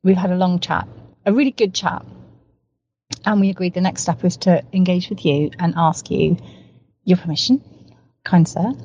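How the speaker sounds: ordinary talk, nothing marked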